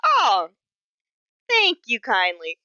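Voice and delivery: frog voice. Acted. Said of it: "and Frog will say".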